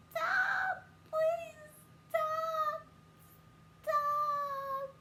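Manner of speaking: high, loud mock pleading screams; retold begging to stop; imitating a scream. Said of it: "All you heard was screaming and falling and crying".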